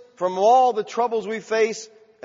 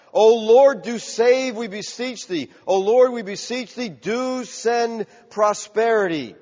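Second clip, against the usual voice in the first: raised-voice plea, pitched up; plea to God; 4 semitones higher, 4 dB louder, slower than usual. Acted. Preacher quoting the psalm's cry for help, pleading. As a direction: implore with drawn-out words. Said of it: "This is a cry to God for help".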